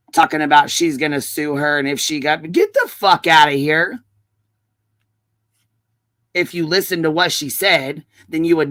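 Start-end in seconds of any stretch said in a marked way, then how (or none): 2.5-4.0 angry dismissal. Real, not acted. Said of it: "I'm coming in hot today".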